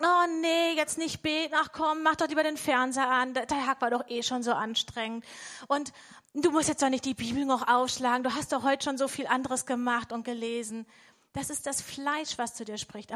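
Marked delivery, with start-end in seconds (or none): 0.0-10.8 whiny, coaxing voice of the lazy flesh, pitched up; lazy flesh talking. Acted. Preacher voicing the flesh to the congregation, lightly whiny. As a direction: tempt yourself to skip prayer, lightly whining. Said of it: "unser Fleisch ist immer dagegen und sagt".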